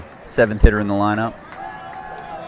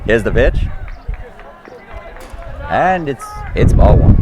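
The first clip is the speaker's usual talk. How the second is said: lightly voiced old-time radio announcer; a hint of a vintage radio play-by-play man; 1940s announcer; 6 semitones higher, 4 dB louder than usual. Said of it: "I will call this as a nineteen forties announcer".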